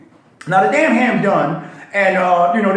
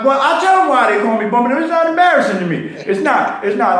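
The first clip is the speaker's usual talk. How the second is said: embarrassed laugh; 5 semitones higher, faster than usual. Real, not acted.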